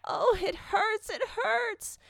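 very high, drawn-out wail of pain; weeping in pain. A narrator's reading. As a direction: act a girl crying out in agony, slowly. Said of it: "she only wept and cried".

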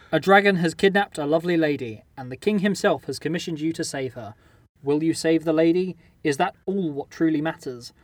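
measured synopsis reading, falling away at the end; story narration. A narrator's reading. Host reading the quest synopsis to players, story narration. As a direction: read it like a storyteller's introduction.

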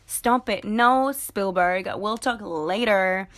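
drawn-out, playful brush-off; mock dismissive. Busy entrepreneur putting off Spielberg, mock dismissive. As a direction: wave off a pestering caller, stretching the words.

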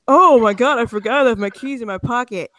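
mock panicked gasp, then a quick babble; mock flustered traveler. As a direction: ham up the forgetful passenger. Mocking forgetful traveler in line.

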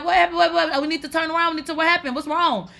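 high, hurried, stumbling worried questions; alarmed questioning. Retold or imitated. Man hearing her cry on the phone, alarmed. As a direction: imitate a panicked man tripping over questions.

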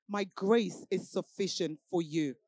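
low, soft and slow divine voice; still voice. Retold or imitated. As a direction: speak it gently like a still voice. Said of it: "a still voice say to me".

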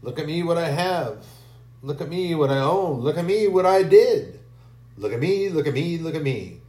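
preen and show off to everyone; a hint of arrogant bragging; boastful. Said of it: "Busy looking down on everyone".

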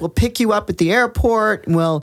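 lightly voiced prize announcer. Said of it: "It was such a perfect voice".

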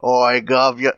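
hammed-up Cockney heckle; bad Cockney voice. Cohost heckles the reviewer in a hammed-up Cockney accent. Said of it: "a bad voice".

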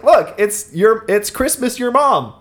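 put-on high, slow gleeful kid voice; excited kid. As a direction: draw it out like a delighted child. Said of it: "one of the kids opens it and is like".

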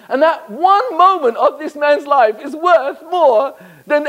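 rising wonder. Acted. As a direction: build awe at the idea, with a high voice. Preacher builds rhetorical question.

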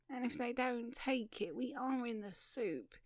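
mildly doleful voice; glum, understated gloom; miserable. Acted. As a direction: say it like a man expecting trouble. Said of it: "miserably said the man".

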